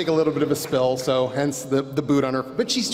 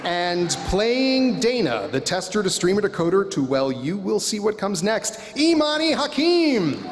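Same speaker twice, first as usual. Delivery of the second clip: pro wrestler announcer voice. Acted. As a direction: hype the crowd, then yell the name. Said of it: "I'm loving my pro wrestler announcer voice".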